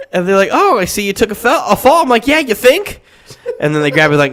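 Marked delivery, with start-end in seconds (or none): 0.5-2.0 high, loud cheery medic voice; chipper paramedic. Retold or imitated. Paramedic noticing his fall, high chipper voice. 2.3-3.0 high, loud dry sarcasm; sarcastic retort. Retold or imitated. Retorting to the paramedic, loud sarcastic tone.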